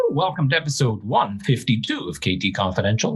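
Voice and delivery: measured podcast host intro; radio voice. Real, not acted. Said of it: "put your radio voice on for that".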